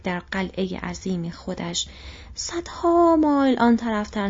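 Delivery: a flustered innkeeper rambling to Gandalf; bewildered innkeeper. Acted. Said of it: "باتربار گیج و متحیر گفت".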